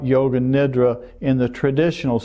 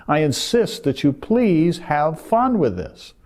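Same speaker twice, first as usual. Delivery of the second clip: kindly insist, with a lift on the key words; mock-sweet plea; playfully sweet insistence; 2 semitones higher than usual. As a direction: coax them lovingly, tongue in cheek. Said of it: "Is that sweet and kind and loving?".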